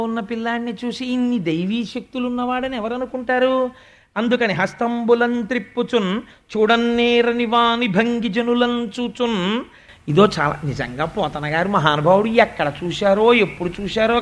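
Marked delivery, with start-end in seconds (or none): 4.5-9.6 poem recitation. Acted. Preacher reciting a verse to the audience.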